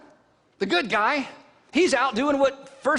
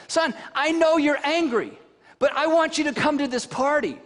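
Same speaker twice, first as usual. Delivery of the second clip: pleading father; 6 semitones higher, 3 dB louder than usual. Acted. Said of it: "his father went out and he pleaded with him".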